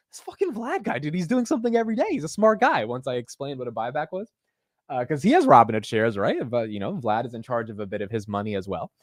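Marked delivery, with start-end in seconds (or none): 0.1-2.8 high, fast imitation of a dad's Indian accent; hammed-up Indian accent, quick and high. Son imitating his Indian immigrant dad, in a mock Indian accent. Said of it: "in their thick Indian accent".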